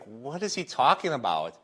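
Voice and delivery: can't believe what he just heard; baffled disbelief. Pretend. Fan reacting to a coach who regrets winning, baffled disbelief. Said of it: "you'd be like".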